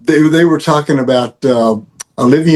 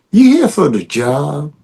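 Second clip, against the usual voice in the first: Louisiana accent. Shown as a demonstration. Actor redoing his film line for the director, in a Louisiana accent. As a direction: say it with a Louisiana voodoo flavor. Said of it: "keep the Louisiana thing".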